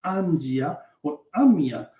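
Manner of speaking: "Angia or Amia" said slowly and carefully, each syllable spelled out; reconstructed pronunciation. Shown as a demonstration. Teacher shows the class how the old root sounded, slow careful pronunciation. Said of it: "that probably was pronounced".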